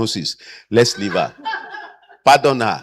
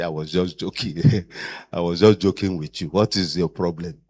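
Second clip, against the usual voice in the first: faking innocence; 9 semitones lower, 7 dB quieter than usual. Retold or imitated. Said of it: "come back and say".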